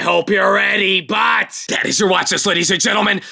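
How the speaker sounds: hype-man announcement; hyped call-out. Real, not acted. Hype sign-off to viewers.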